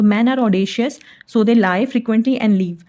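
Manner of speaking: slow, word by word; slow dictation pace. Shown as a demonstration. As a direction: dictate it slowly. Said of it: "slow English sentence".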